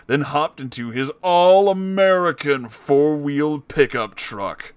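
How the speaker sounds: normal talking voice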